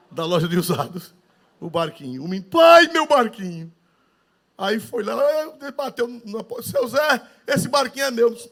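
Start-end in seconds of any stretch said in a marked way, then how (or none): 2.5-3.7 put-on high, slow, loud child's cry of recognition; a boy who just found his treasure; excited little boy. Boy in the story calling to his father, high and excited. 6.7-8.3 put-on high child voice calling out; a small boy claiming his toy. Boy calling to the old shop owner, high calling voice.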